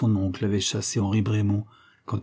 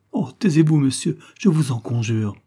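pleading outburst; 3 semitones higher, 4 dB louder than usual. Acted. Denise begs inspector to stop.

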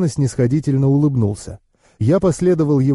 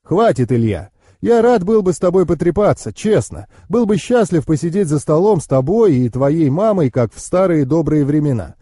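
higher-pitched uncle, friendly but firm; uncle taking his leave; 4 semitones higher than usual. Acted. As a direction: wind up the conversation as the hurried uncle.

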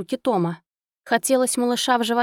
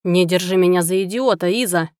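angry; 2 semitones lower, 4 dB louder than usual. Acted. Husband furious at denial.

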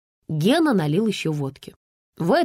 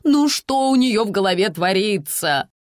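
lamenting.

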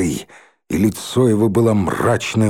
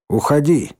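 commanding; 4 semitones higher than usual. Acted. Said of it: "приказала железная кнопка".

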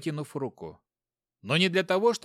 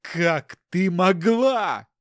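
slow furious accusation; 4 semitones higher, 7 dB louder, much slower than usual. Acted. Betrayed husband accuses wife.

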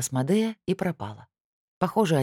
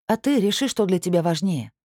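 резко бросив; 5 semitones higher, 3 dB louder than usual. Acted. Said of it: "бросила я".

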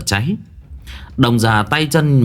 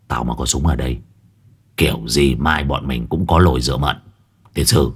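scoffing; 9 semitones lower than usual. A narrator's reading. Old exorcist scoffing at the shaman's boast. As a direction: scoff with a curled lip. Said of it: "thầy bĩu môi".

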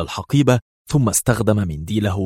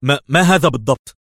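hesitant, higher-pitched stammer; wary question; 6 semitones higher, 6 dB louder than usual. A narrator's reading. Levi eyeing the mysterious bag, warily. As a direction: stumble on the first word, on guard. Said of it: "في حذر وهو يقول".

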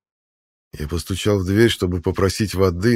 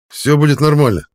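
reassuring; 8 semitones higher, 7 dB louder than usual. A narrator's reading. Husband reassures wife.

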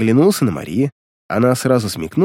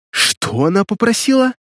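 higher, indignant raised voice; 10 semitones higher than usual. Acted. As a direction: demand it in outrage. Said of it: "я повысил голос".

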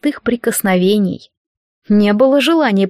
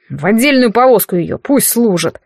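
commander's grimace. Acted. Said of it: "скривился командир".

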